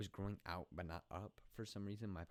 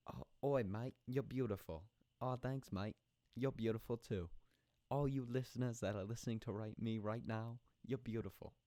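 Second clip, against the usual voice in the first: higher, hammed-up mock Australian; bad Australian accent; 4 semitones higher, 5 dB louder than usual. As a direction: play two mates with a badly faked Australian accent.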